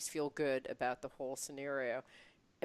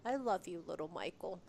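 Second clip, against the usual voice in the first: gentle mantra; 8 dB quieter than usual. Shown as a demonstration. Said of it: "I'm gonna say".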